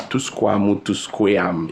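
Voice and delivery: SQUAM with an open "ah" vowel; wrong SCREAM. Shown as a demonstration. Teacher listing wrong ways to say scream, SQUAM with "ah". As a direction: mispronounce it twice as "squam". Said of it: "E pa to scream".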